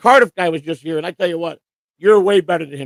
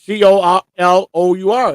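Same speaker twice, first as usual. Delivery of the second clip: slow spelling; 2 semitones higher, 5 dB louder, slower than usual. Shown as a demonstration. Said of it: "spelled color".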